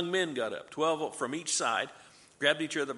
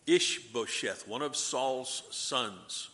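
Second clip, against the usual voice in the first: slow careful pronunciation; much slower than usual. Shown as a demonstration. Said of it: "you might have to pronounce a Hebrew name".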